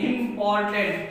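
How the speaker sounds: इंपॉर्टेंट broken into three beats, im-por-tent; split into syllables. Shown as a demonstration. Teacher counting three syllables, इंपॉर्टेंट in separate beats. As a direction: sound out इंपॉर्टेंट one syllable at a time. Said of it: "तीन syllable का हो गया".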